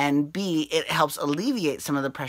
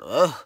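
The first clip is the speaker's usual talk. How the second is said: pained groan; 4 dB louder than usual. Real, not acted. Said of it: "I've got really bad heartburn".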